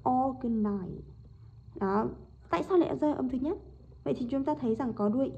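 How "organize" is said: "organize" stressed on its first syllable. Shown as a demonstration. Teacher models word stress, "organize" with first syllable stressed. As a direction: lean on the opening of "organize". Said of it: "trọng âm rơi vào âm thứ nhất".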